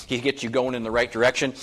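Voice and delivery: ordinary delivery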